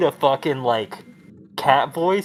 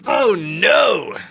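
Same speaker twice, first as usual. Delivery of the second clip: alarmed shout; 7 semitones higher, 4 dB louder than usual. Real, not acted. Sudden alarm on stream.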